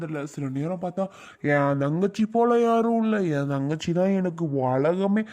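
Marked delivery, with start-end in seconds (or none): 1.5-5.2 a hint of sing-song sister mimicry, stretched out; mocking imitation. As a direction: drag out her doting words to mock them. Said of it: "அப்படி இப்படின்னு சில நேரம் பேசுதும்".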